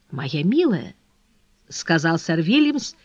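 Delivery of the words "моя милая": low, dry endearment; restrained, dry address; dry, laconic. A narrator's reading. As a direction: answer coolly in a low, terse tone. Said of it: "тем же сухим лаконичным тоном".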